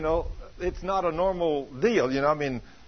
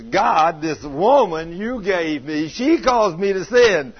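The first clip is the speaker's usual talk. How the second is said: Adam's complaint; 6 dB louder, slower than usual. Retold or imitated. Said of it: "Adam says".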